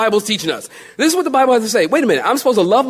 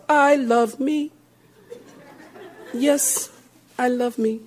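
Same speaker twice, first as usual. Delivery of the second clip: mock self-adoration; 4 semitones higher, 5 dB quieter, slower than usual. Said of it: "just say to yourself".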